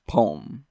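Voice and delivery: "poem" pronounced pome, like home; "poem" as pome, with no second vowel; one-syllable poem. Shown as a demonstration. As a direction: squash "poem" into a single syllable. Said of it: "the pronunciation is poem".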